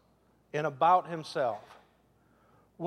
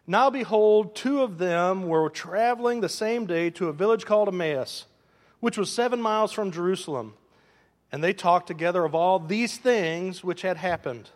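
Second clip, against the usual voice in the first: louder, declarative Bible reading; scripture reading; 5 dB louder than usual. Real, not acted. Preacher reading the Word of God to his church, proclaimed. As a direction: read it out firmly to the congregation.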